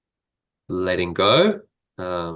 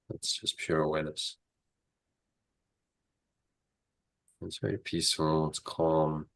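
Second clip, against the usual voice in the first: soothing massage murmur; 2 semitones lower, 4 dB quieter than usual. Acted. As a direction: murmur gently to calm them down. Guided meditation continues.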